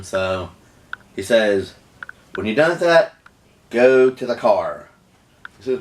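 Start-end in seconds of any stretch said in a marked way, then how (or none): 2.3-4.9 put-on mildly angry order to a boyfriend; retold anger. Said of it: "he said he was really mad".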